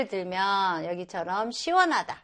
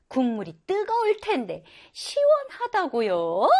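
questioning, a bit higher; puzzled surprise; 4 semitones higher than usual. Retold or imitated. A foreign girl asking in mild surprise. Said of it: "라고 이제 놀라워하죠".

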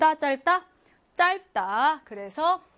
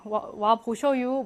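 Chungcheong dialect; slower than usual. Retold or imitated. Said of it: "충청도 하면은".

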